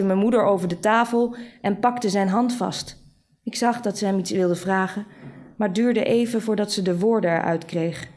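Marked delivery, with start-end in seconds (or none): none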